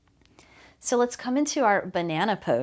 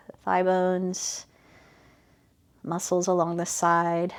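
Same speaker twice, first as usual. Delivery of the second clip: calm, even body-scan guidance with unhurried phrasing; guided meditation. Real, not acted. Teacher guiding students' attention from heels up to shoulders, guided meditation. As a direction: gently lead attention through the body, leaving space between phrases.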